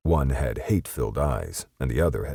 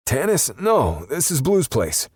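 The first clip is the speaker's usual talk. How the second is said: high-pitched, slower scared answer; frightened perp; 13 semitones higher, 5 dB louder than usual. A narrator's reading. Perp at gunpoint answering Justice, high and afraid. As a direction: plead it out, scared stiff.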